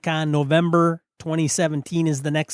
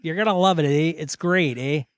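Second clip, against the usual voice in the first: put-on Wisconsin accent. Co-host pitching the con to listeners in a mock Wisconsin accent. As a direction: sell the con like a Wisconsin local, eh. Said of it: "That's almost as bad as your Australian".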